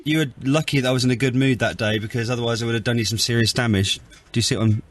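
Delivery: mild, low-key attempt at menace; unthreatening threat. Real, not acted. Son warns driver who abused his mum, mildly threatening. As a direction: threaten him without really sounding threatening. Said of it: "the way when you threatened him".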